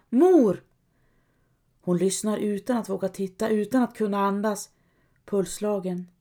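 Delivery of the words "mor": higher, louder call into the dark. Acted. Helga calls for her mother in the night, calling out. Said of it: "försöker Helga".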